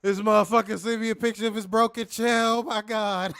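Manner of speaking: loud, high laughing delivery; real laughter bubbling through; laughing while talking. Real, not acted. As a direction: push the words out through laughter. Cracking up over broken chair.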